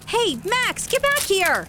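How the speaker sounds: calling out. Acted. Calling after runaway dog.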